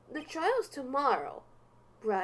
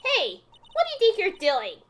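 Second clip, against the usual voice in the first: gruff guard; 5 semitones higher, 4 dB louder than usual. Acted. Game guard voiced, shouting.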